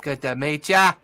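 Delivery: lightly voiced Cockney mouse greeting, cheery; a friendly Cockney mouse folk saying hello, a hint of Cockney. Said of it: "Apparently a Cockney mouse folk".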